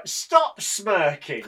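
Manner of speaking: slow stop smirking. Real, not acted. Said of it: "You're being really childish".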